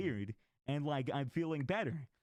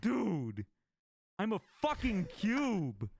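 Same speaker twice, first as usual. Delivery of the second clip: stoned friend; 7 semitones higher, 4 dB louder, much slower than usual. Retold or imitated. Friend high on shrooms, voiced.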